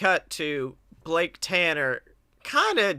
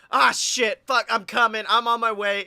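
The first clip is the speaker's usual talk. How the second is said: louder, urgent imitation of panic; mock flustered; 3 semitones higher, 4 dB louder than usual. Host mimics co-host's late reply, mock flustered. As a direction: imitate someone caught running late.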